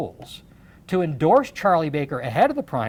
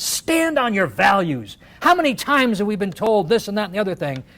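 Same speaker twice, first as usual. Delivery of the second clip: impassioned; 2 semitones higher than usual. Retold or imitated. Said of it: "just an impassioned".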